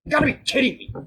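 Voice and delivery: high, loud disbelieving yell; you can't be serious, shouted; exasperated outburst. Real, not acted. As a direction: explode in disbelief at the screen. Frustrated at game physics.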